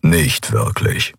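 low growled no; knurrend. A narrator's reading. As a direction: growl it, curt and deep. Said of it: "knurrte der Skrilla". (tiefes, knurrendes Nein)

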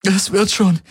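high, stress on wird, falling; holding back sobs. A narrator's reading. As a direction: lean on "wird" to convince herself. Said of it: "unterdrückte ein Schluchzen". (Schluchzen unterdrückend, Betonung auf "wird")

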